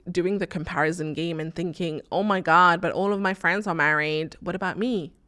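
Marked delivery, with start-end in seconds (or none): 2.1-4.4 mock American accent. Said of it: "this was an American accent". 4.4-5.1 put-on slipping into an American accent. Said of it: "this was an American accent".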